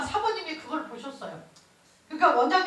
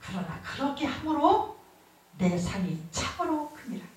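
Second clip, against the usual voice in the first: tender God; 4 semitones lower, 3 dB quieter than usual. Retold or imitated. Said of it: "그 다음에 하시는 말씀이".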